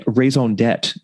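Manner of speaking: raison d'etre said in a hammed-up French accent with a nasal on; mock-French raison d'etre, slow, tête-like ending; jokey bad French accent. Shown as a demonstration. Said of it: "I will continue to employ my bad French accent".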